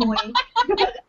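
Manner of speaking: short high-pitched laugh. Real, not acted. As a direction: let out a quick, high laugh. Amused while recalling strict mother.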